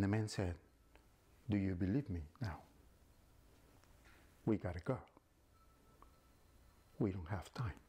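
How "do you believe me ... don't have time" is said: low sinister angel of death; evil voice. Acted. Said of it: "the voice is like an evil voice".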